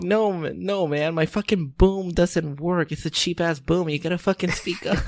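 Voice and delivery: a hint of a fed-up boom operator; annoyed sound guy.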